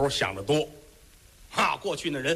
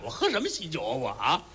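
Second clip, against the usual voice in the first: angry; faster than usual. Acted. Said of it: "老太太气坏了".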